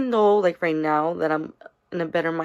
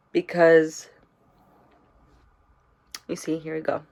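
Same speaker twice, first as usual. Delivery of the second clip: tearful. Real, not acted. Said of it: "I'm sorry if I'm gonna ugly cry".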